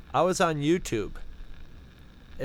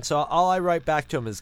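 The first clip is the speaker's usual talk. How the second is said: ordinary talk, nothing marked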